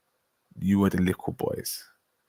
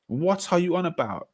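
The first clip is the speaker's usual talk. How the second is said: higher scoffing repeat; incredulous retort; 8 semitones higher than usual. Real, not acted. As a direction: scoff at the claim again.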